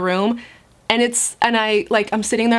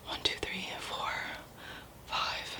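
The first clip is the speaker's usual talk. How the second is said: whispered counting; 19 dB quieter, slower than usual. Real, not acted. Mother tallying her blood tests, whispering the count. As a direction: count under her breath.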